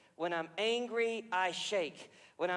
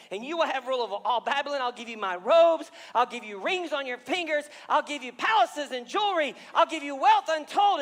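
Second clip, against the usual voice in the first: king's lavish offer; 6 semitones higher, 9 dB louder than usual. Acted. Preacher voices king bribing Daniel.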